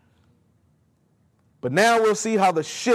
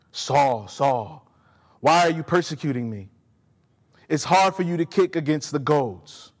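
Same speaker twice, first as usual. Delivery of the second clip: lower, intimate voice of Jesus calling Saul; Jesus speaking personally; 3 semitones lower than usual. Shown as a demonstration. Preacher showing how Jesus spoke to Paul's heart, lower and intimate. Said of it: "Here, Jesus is speaking his dialect. Now watch".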